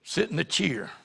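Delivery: "cheer" said for chair, rhyming with ear; imitating country pronunciation. Pastor imitating Norval's "cheer" for chair, with a laugh. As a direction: lightly mimic a Tennessee country boy saying "cheer". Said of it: "He said cheer".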